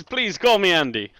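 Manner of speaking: lightly attempted accent for the Count; put-on character accent. Game master as the Count asking familiarity, put-on accent. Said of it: "he's got the accent on this time".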